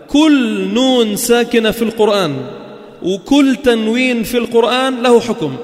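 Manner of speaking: لكن القاعدة تقال بقوة وبصوت عال; emphatic rule. Shown as a demonstration. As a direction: drive the rule home to the class. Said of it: "احفظ هذه القاعدة".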